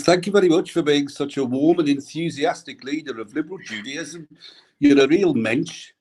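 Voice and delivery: put-on a light Birmingham accent on a tribute reading. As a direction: read it in a mild Brummie accent. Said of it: "I'm gonna do this in a Birmingham accent".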